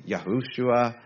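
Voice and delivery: Yahushua with a long "hu"; pronounced Yahushua. Shown as a demonstration. Listing name variants for the congregation, pronounced Yahushua. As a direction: add a middle "hu" in Yahushua. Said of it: "some say".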